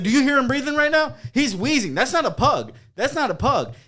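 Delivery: cracking up while mocking; giggling insult about a friend wheezing; laughing roast. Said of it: "I was like".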